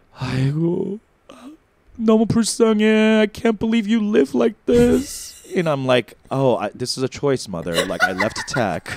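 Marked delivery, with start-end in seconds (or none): 0.2-5.4 put-on weepy, drunken lament, slow and high crying. Retelling her drunk mother in the Uber back after her show, imitating drunk mom crying. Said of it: "she starts like crying in the Uber".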